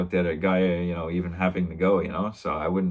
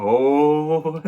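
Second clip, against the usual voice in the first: mock excited cry; 8 semitones higher, 6 dB louder than usual. Egging each other on, retold.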